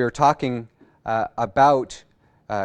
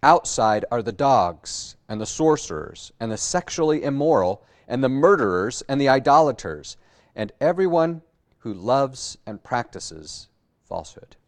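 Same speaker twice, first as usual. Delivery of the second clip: scripture reading. Acted. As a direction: read the closing verses deliberately, line by line. Scripture reading opening the sermon.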